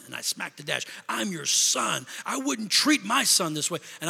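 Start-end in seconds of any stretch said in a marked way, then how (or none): 1.1-2.1 retold scream. Son reliving his cry out to God, mildly screamed protest. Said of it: "And I screamed". 2.2-3.8 retold outburst. Preacher reliving his complaint to God, mock indignant outburst. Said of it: "it just comes out like that".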